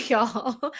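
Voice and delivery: bubbling over, eager for the next one; excited push on. Real, not acted. Eager to show more examples.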